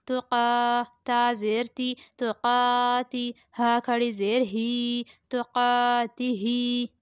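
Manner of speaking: measured recitation with long-held final vowels; slow, level-pitched syllable-by-syllable recitation; Qaida spelling recitation. Shown as a demonstration. Teacher spelling out Qaida words for pupils, measured recitation.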